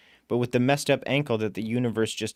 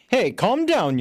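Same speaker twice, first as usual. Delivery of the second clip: a touch of scowl, pitched well up and louder; gruff warning to his passenger; scowling driver; 11 semitones higher, 5 dB louder, slower than usual. Acted. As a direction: cabbie scolding the heroine. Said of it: "he scowls at me".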